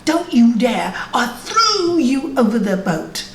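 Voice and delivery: mild acted indignation; angry disciple. Angry disciple warning the boatman about his master, mildly indignant. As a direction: scold with measured, emphatic warning. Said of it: "this disciple got so angry".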